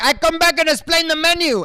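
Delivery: high, mock waiter offering help. Waiter to lone diner, high mock voice.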